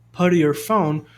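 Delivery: "Put your" linked as "puddy-your"; T like a soft R. Shown as a demonstration. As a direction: flap the T in Put into your, American style. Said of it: "um sonzinho de R".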